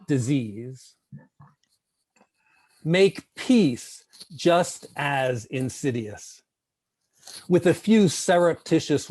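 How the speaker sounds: measured poetry recital with long pauses; poem reading. Acted. Poet reading own poem to an evening group, measured recital.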